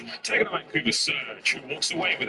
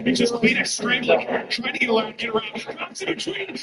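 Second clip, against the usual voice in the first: excited play-by-play; 9 semitones higher than usual. Real, not acted. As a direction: call the clutch live. Caster calling a tense clutch.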